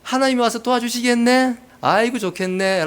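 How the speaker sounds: imitated sneering congratulations; acted scoffing; sarcastic mock jeer. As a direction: needle the sufferer with fake admiration. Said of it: "이렇게 비아냥댄다는 거예요".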